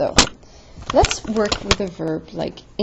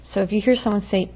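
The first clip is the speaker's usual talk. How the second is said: ordinary talk, nothing marked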